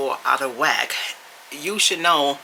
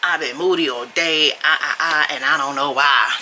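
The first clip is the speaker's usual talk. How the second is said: mock whiny woman. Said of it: "be like".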